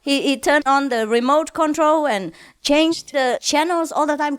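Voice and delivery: normal talking voice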